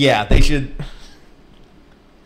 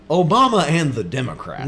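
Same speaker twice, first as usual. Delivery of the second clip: lightly booming talk-radio host impression; 3 semitones higher than usual. Brother imitates radio host from childhood, booming radio voice. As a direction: imitate a radio pundit, swooping on the words. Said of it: "in this booming, like, radio perfect voice".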